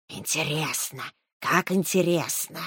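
slow hypnotic serpent hiss. Acted. Snake muses, intrigued.

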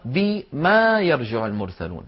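"بما" opened into bi + long maa; الأصل بإثبات الألف. Shown as a demonstration. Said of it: "هذه أصلها". («بما» بألف ممدودة على الأصل)

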